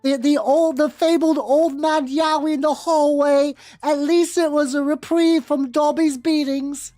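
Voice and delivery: high, whimpering house elf voice; house elf Dobby. Acted. Reading the fanfic aloud as Dobby, in a high pitiful voice. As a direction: squeak it out like a put-upon house elf.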